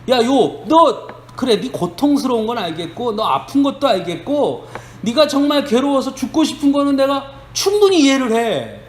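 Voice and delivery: hammed-up friend's reprimand; imitating a scolding friend. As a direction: scold him like a self-righteous friend, pitch climbing. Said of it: "이렇게 말하는 거예요".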